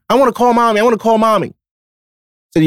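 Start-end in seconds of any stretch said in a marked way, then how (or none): 0.1-1.5 higher, lightly mimicked whine of a four-year-old; mock the kid begging for her mom; whiny little girl. Stepdad imitating the four-year-old begging to call mom, mild whine. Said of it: "She, she's all morning".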